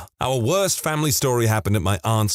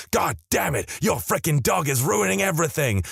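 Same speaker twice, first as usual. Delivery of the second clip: sharp, raised angry voice; angry outburst; 6 semitones higher than usual. Retold or imitated. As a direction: snap it at them in a rage. Father blows up at family.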